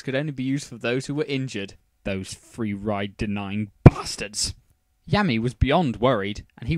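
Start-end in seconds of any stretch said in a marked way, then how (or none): 2.0-4.5 slow grumbling aside. Acted.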